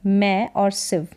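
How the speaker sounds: "मैं" and "सिव" given slowly as two parts; sounding out. Shown as a demonstration. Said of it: "क्या है इसका उच्चारण". (मैं और सिव, धीरे तोड़कर)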